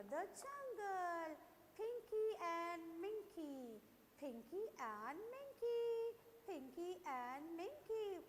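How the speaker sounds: slow, sing-song storybook narration; reading to children. Acted. Teacher telling a story to young pupils, slow storybook voice. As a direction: draw the children into the tale, slowly.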